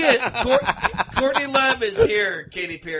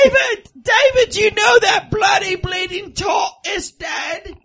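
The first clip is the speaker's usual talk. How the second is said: shouting at David; 7 semitones higher than usual. Acted. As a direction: yell across the room at David. Celeb wife shouting at David.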